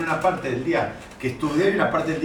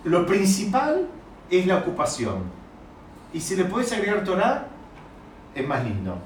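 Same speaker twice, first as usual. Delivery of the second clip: slow, deliberate reading of the saying; slow paraphrase; 3 semitones higher than usual. Shown as a demonstration. Teacher to class, slowly spelling out the first reading. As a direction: lay out the saying slowly, word by word. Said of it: "La primera frase aparentemente es".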